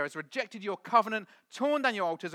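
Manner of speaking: mock aggrieved complaint, a little high; imitated whiny protest; whining. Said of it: "and he just whines".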